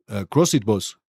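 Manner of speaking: lightly voiced player replying to his boss; player answering. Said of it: "He's giving the directions now".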